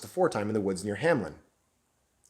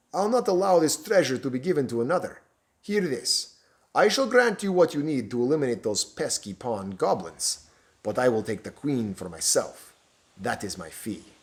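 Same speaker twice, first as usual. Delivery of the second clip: menacing villain. Acted. Stranger naming his price to the bishop, commanding. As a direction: lay down terms with cold authority.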